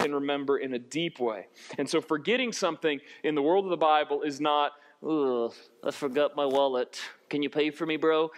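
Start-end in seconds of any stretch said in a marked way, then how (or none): 5.1-8.3 lightly put-on low dude voice; forgetful bro. Friend asking a bro to pay, mock casual. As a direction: imitate a guy sheepishly hitting up a pal.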